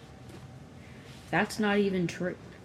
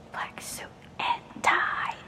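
slow breathy whisper of a song lyric; 6 dB quieter, much slower than usual. Retold or imitated. Humming a favorite song's whispered line to herself. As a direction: breathe the lyric out slowly, barely voiced. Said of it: "bitches whispering in songs".

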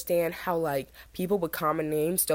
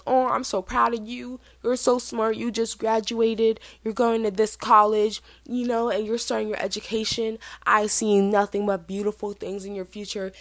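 higher, gushing parent voice; proud parent; 4 semitones higher than usual. Retold or imitated. Parents dropping daughter at the dorms, gushing with pride. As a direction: pour out pride like a doting parent.

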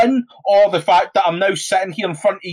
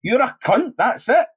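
higher, slow scornful insults; contemptuous retort; 5 semitones higher than usual. Retold or imitated. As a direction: spell out the contempt word by word. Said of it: "And you're like".

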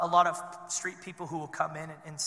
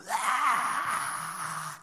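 mock scream; 6 semitones higher than usual. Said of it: "all I can hear is screaming".

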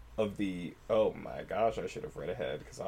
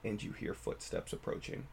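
storytelling voice. Shown as a demonstration. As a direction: tell it like a campfire horror tale. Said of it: "Storytelling voice".

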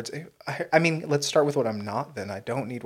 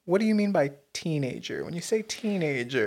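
higher-pitched mock questioning voice; R. Kelly; 4 semitones higher than usual. Joking to partner as an evasive celebrity, lightly mocked questioning. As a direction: lightly play a man querying the wording. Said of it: "Like R. Kelly".

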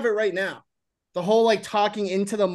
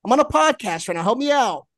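pleading caller; 3 semitones higher, 4 dB louder than usual. Real, not acted.

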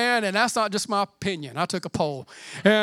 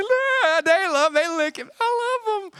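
put-on much higher, louder baby-talk coo; cooing at a puppy; 8 semitones higher, 4 dB louder than usual. Puppy owner cooing high and delighted at the dog. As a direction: gush over the puppy in your lap.

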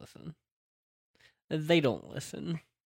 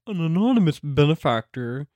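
mock quote; 3 semitones higher, 6 dB louder than usual. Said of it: "you were like".

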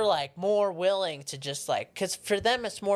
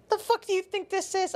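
pitched-up mock cop, indignant; offended cop; 13 semitones higher than usual. Cop indignant at the five-dollar bribe, high mock voice. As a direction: play the insulted cop, squeaky and high. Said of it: "he's like".

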